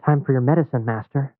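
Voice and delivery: creepy servant voice, lightly voiced; fawning, menacing manservant; sly servant. Voices Renfield serving Dracula.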